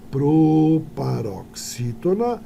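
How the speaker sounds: "proparoxítona" said very slowly, each syllable spaced, rising at the end; slow, deliberate teaching of "proparoxítona"; drawn-out term. Shown as a demonstration. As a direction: spell out "proparoxítona" slowly for the class. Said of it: "como vocês sabem".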